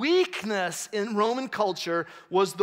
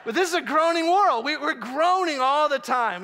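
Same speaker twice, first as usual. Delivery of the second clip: animated preaching; 6 semitones higher, 3 dB louder than usual. Real, not acted. Preaching builds.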